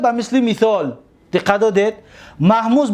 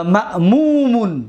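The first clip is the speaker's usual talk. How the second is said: slow emphatic form; slower than usual. Shown as a demonstration. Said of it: "اسم مفعولش".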